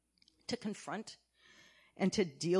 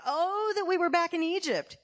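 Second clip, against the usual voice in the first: mock whining; 8 semitones higher, 5 dB louder than usual. Mocking Israelites' complaint.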